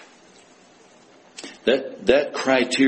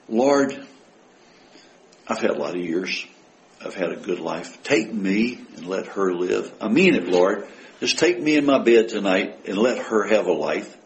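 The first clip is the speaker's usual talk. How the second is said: earnest prayer; 2 semitones lower than usual. Acted. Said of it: "and meant it".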